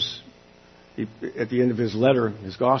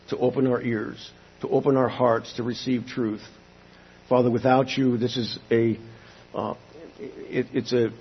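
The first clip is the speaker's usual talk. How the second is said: earnest pulpit prayer. Acted. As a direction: pray aloud humbly for the congregation. Leads congregation in prayer.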